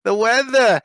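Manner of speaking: put-on high, slow, drawn-out whining old woman; fussy old lady. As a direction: squeal it out like a fussy little old lady asking everyone. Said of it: "she keeps starting conversations with me".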